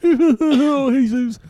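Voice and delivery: high laughing callout. Retold or imitated. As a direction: laugh through the greeting. Laughing imitation of friend.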